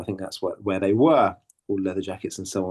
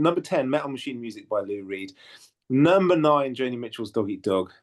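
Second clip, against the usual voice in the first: chart rundown. Pretend. Host reads the top ten to listeners, chart rundown style. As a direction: count down the chart like a DJ. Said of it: "correct sort of chart rundown style".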